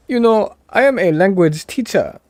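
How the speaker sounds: loud, high mock African accent. Streamer boasting of teaching, mock African accent. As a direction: announce it in a put-on African accent. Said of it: "This is my African accent".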